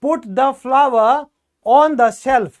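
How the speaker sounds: each word drawn out very slowly and loudly; slow dictation. Shown as a demonstration. Teacher to students showing how flour sounds, slow loud dictation. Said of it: "तो आटा जो है".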